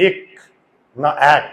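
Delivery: এক said once closed, once as অ্যাক; contrasting two pronunciations. Shown as a demonstration. Teacher asks which pronunciation of এক is right. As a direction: question between two sounds of এক. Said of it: "এটাকে আমরা উচ্চারণ করি কি".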